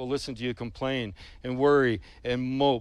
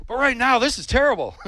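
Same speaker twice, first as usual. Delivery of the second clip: anguished cry; 9 semitones higher, 6 dB louder, faster than usual. Acted. Psalmist's anguished outburst.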